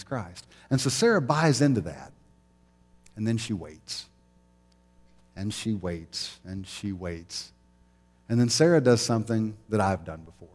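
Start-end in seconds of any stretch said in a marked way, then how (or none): 3.1-7.5 slow, softer, fading repetition; drawn-out waiting. Acted. Sarah waiting year after year, slow and fading. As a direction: let each "she waits" sag longer. Dramatizing Sarah's long wait.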